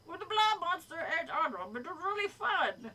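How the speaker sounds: hammed-up attempt at New Jersey; pretend New Jersey accent. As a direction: fake a Jersey monster enthusing. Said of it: "pretend I'm doing a New Jersey accent".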